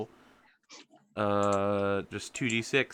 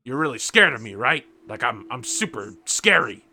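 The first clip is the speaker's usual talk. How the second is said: loud, eager would-be scary dog; dog seeking reassurance; 7 dB louder than usual. Acted. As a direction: boast loudly, fishing for agreement. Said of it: "He's like".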